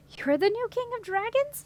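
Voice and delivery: high, amazed question; can't believe it; a princess amazed at the dragon, astonished. A narrator's reading. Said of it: "said in astonishment".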